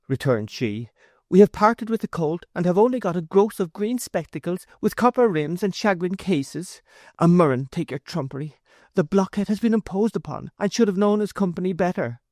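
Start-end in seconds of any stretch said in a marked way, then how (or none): 1.3-12.2 high, bitter complaint; wife railing at her son's foolish trade; exasperated wife. A narrator's reading. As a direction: scold the blockhead. Wife's voice held in reading.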